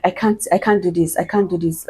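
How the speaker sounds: softly, as if giving up; quiet mock exhaustion; retold despair. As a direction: drop the volume, act out being at your limit. Retold giving up during labor.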